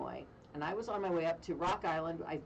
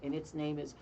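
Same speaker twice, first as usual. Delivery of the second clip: spooky mortician punchline; 3 semitones lower than usual. Retold or imitated. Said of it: "he goes down".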